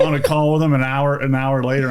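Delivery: laughing while talking. Real, not acted. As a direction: chuckle through the words. Laughing about buying instantly.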